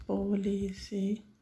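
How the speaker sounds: Polissílaba drawn out slowly for students; slow repeat. Shown as a demonstration. (repetindo Polissílaba devagar)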